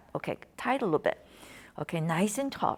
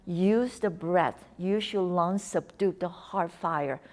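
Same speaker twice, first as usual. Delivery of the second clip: slow, measured calming words; slow calm mantra; slower than usual. Shown as a demonstration. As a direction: recite it like a soothing Qigong saying. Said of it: "That's a Chinese Qigong thing".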